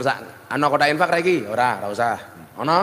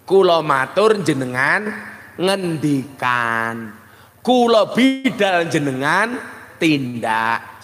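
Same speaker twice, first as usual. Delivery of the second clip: slow careful demo; slower than usual. Shown as a demonstration. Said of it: "saya matur kepada Kiai Wake".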